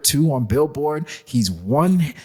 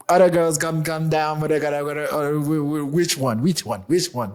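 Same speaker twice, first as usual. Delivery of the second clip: put-on UK accent. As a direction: mumble through a rough UK accent. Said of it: "He did a U K accent".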